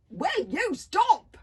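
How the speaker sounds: loud, high, slow panting cry; panting plea. A narrator's reading. Hiccup panting while parrying her moves, loud plea. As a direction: gasp it out mid-parry. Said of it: "panted Hiccup".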